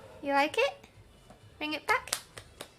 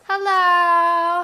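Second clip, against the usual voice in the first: loud greeting; 5 semitones higher, 14 dB louder than usual. Real, not acted. Greeting live chat loudly.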